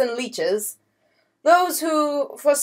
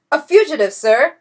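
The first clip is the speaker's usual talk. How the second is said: hurried, higher blurt; 6 semitones higher, 6 dB louder than usual. A narrator's reading. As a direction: blurt it out in a panic. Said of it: "blurted the troop captain".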